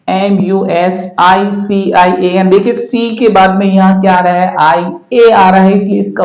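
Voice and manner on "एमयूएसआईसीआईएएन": slow, careful letter-by-letter spelling; teacher spelling each letter slowly; spelled letter by letter. Shown as a demonstration. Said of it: "उसी तरह से है".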